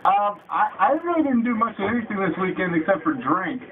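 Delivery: muffled inside a bucket; bucket on head. Real, not acted. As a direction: talk with a bucket over your head. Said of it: "my nose is so big that it's pushing against the bucket".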